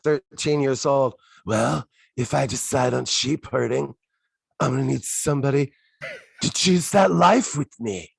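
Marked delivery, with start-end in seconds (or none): 1.4-8.1 lightly voiced teenage boy making a halting proposal; Andy impression. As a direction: imitate a boy's line, pausing between phrases and lifting at the end. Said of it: "Is that your Andy impression?".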